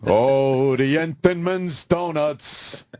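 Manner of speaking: slow, drawn-out crooner delivery; mock crooner lingering on the words; a famous singer. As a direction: savour it slowly like an old-time singing star. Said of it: "a famous singer was a weekly customer".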